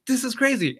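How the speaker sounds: retold giddy disbelief; amazed. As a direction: gasp it out at the jackpot. Drunk man's winnings soar.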